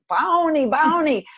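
put-on "Bounty" for Barney, said high like a small child; child's mispronunciation. Mother imitating her daughter begging for a show, high childlike. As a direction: imitate a little girl who can't say her R's. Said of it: "She couldn't say her R's".

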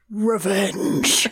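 put-on drawn-out melodramatic teen declaration; dramatic teenage voice. Teenage son answering his mom's question, with overblown drama. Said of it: "In, like, the most dramatic seventeen-year-old voice".

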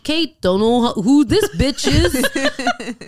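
slow, laughing mock of a bored host, rising high at the end; dismissive host. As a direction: sneer through the intro as a bored host. Mimics dismissive host introduction.

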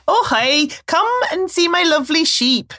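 Welsh accent. Shown as a demonstration. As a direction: attempt at a sing-song Welsh accent. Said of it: "Oh, well, that's Welsh".

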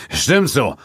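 hasty call; calling hastily. A narrator's reading. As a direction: toss it off while rushing out. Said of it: "rief er".

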